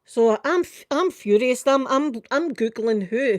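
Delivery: choking on how angry she still is; furious. Real, not acted. Recalling the call, stammering with fury.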